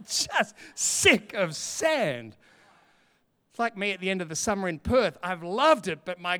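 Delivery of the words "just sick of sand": laughing whine. Retold or imitated.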